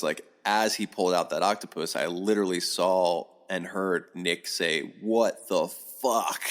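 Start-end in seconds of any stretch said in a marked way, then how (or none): 5.0-6.4 slow, drawn-out astonishment; retold stunned disbelief. Nick reacts as the octopus is pulled out, stunned. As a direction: stretch every word as an imitated shocked reaction.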